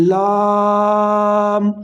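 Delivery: لام stretched very long; long madd on lam. Shown as a demonstration. Teacher showing why lam with madd is read long, drawn out. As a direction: hold the vowel of لام a long time. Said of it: "لام کو زیادہ لمبا کریں گے".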